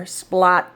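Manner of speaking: "Splot" ending in a faint stopped T; faint final T. Shown as a demonstration. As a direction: barely sound the T of "Splot". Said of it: "You can almost hear it there".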